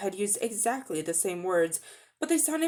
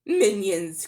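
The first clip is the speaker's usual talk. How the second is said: louder furious cry; enraged cry; 5 dB louder than usual. Acted. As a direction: bark the word in rage. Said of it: "cried the queen, turning in rage".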